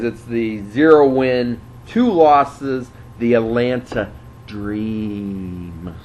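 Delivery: half-mocking grand intro; announcer intro. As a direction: drag out the name like a ring announcer. Announces matchup records.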